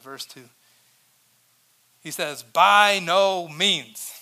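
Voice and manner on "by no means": "By no means" drawn out very slowly and louder, every word pressed; "By no means" hammered slowly, word by word; emphatic. Acted. Pastor reading Paul's reply to the congregation, emphatic and slow. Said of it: "It's a very emphatic statement".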